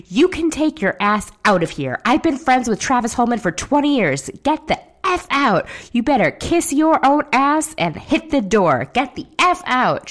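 hammed-up screaming fit at a party guest; mock scream. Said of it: "She's just absolutely screaming".

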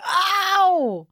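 a loud high wince of sympathy; ow, as if she felt it; sympathetic ow. Real, not acted. Friend winces at the knee story, loud high ow.

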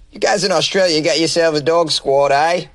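lightly put-on Aussie twang; a touch of mock Australian accent. Comedian addressing guys in Australia, light Australian accent. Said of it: "use my Australian accent".

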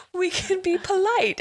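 high, slow, overly polite pirate voice; gentleman pirate. Retold or imitated. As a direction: put on a prim, courteous pirate, slowly. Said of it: "He called himself the gentleman pirate".

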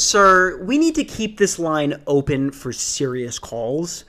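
slow, mock-official reprimand; hammed-up stern phone agent; stern leasing agent. Agent scolds supposed prank caller.

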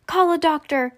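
high, urgent call; narrator's controlled shout; mild shout. A narrator's reading. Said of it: "shouted Mister Beauregard".

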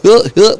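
hammed-up country "hilk hilk"; imitating a good old boy's laugh; hick laugh.

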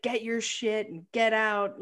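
"Get your shit and get out" as a curt mock-angry dismissal; mild retold fury; mock-livid order. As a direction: firmly throw him out, half-acted. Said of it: "she is just so livid".

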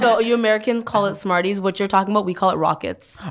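talking with candy in mouth; mouth full. Real, not acted. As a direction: speak around a mouthful of candy. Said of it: "I'm gonna pop another candy in my mouth".

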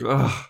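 retold "ugh" of a miserable poet; mock groan. Retelling crying William's reply.

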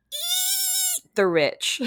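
high, slow whale call; orca whale. Pretend. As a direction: stretch it out like an orca's squeal. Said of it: "This is my impression of an orca whale".

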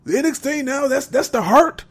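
high, mocking Irish questions; Irish gangster accent. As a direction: scoff in a put-on Irish gangster voice. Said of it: "he came out there with that Irish accent".

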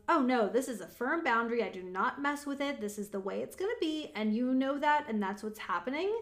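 firm, matter-of-fact insistence; firm boundary. Acted. Coach models a parent's immovable rule, firmly. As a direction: lay down the rule with no room to argue. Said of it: "That's your firm boundary".

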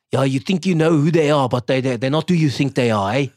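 lightly imitated South African accent. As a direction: slip into a South African accent like Andy Serkis. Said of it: "this authentic".

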